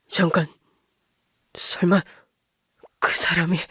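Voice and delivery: stunned whisper of realization; shocked whisper. A narrator's reading. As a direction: breathe it out in disbelief.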